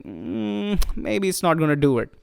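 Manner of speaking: quiet, doubtful hum, then muted hesitation; mildly skeptical. Retold or imitated. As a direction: recall your own doubt with a soft, unsure "mm". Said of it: "I was a little skeptical".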